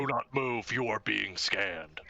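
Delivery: lightly voiced death machine, slow and deep; a hint of a cliché killer robot, deep and slow. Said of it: "super deep voice".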